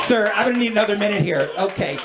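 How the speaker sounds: officious customer-service patter, lightly put on; mock-professional politeness; gate agent. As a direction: imitate an agent being scrupulously supportive. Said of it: "these cranky airport gate agents".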